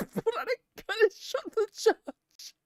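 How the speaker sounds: very high, loud indignant judge voice; outraged judge. Acted. Judge condemning the girl who struck him, high outraged voice.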